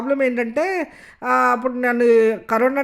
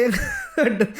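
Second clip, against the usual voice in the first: laughing; 4 semitones higher, much slower than usual. Retold or imitated. Gangavva's reply retold with laughter.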